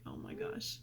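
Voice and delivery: very high, breathy little "Oh my gosh"; a high, startled "Oh my gosh"; mortified gasp. Retold or imitated. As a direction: squeak it out in shock. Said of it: "And I was like".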